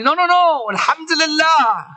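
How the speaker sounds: preacher's impassioned cry of praise; defiant praise. Acted. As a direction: overrule the doubt with ringing conviction. Zainab defiantly praises despite her losses.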